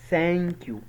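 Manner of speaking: "ثانك يو" with clear th, falling on "يو"; tongue between the teeth, stretch "ثانك". Shown as a demonstration. Teacher insisting on the rule, "ثانك يو" with tongue-out th. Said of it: "لازم اطلع لساني واقول".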